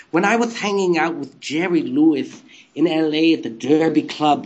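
lightly lisped statue character voice; a hint of a silly lisping raconteur; Elvais. Statue reminiscing about Jerry Lewis, lightly lisped character voice. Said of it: "that's what Elvais was to me".

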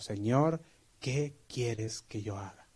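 preacher models a humble, slow prayer to the Lord. Shown as a demonstration. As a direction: pray it gently, giving yourself up. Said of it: "lo que cada uno de nosotros debemos hacer".

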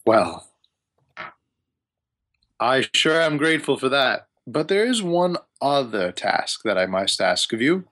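lightly voiced wizard with deliberate pauses; wizard asking a favor. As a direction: ease into a delicate request as a wizard. GM voices wizard Hamun Kost.

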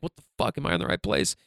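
confused mutter. Retold or imitated. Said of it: "And you're like".

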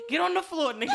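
high, loud mock stickup yell; advising ladies to play robber, shouting; mock holdup shout. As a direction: shout it, half laughing. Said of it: "Be like".

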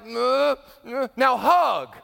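bossy parent. Acted. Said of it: "So you're like".

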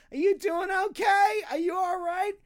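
loud, high Jersey accent mock. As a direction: belt it out in a thick Jersey accent. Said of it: "thick Jersey accent".

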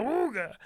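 awooga jumping high and short; ahooga horn. Pretend. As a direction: snap awooga up high and quick. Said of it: "Can I just say awooga?".

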